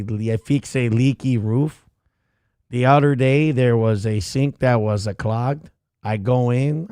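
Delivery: lightly voiced cheeky dog; a hint of a bragging, crude pet; voicing the dog. Dog Gordy boasting about himself to the audience, lightly voiced. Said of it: "Gordy, you're so X-rated today".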